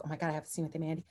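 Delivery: barely voicing her star-struck thought; awed hush. To herself before running lines with Mandy, hushed awe.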